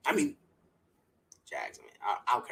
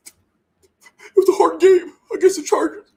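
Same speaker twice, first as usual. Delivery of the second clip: mock player quote; 9 semitones higher, 5 dB louder than usual. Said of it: "and be like".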